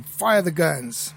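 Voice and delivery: drawn-out mock battle order; mock command. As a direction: give a slow, emphatic play-war command. Retold pretend command to co-pilot.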